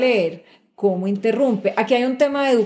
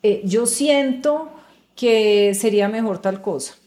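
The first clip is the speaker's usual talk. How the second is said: tentative feeling phrasing. Shown as a demonstration. Speaker contrasts women's tentative phrasing, hesitant. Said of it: "Entonces dicen".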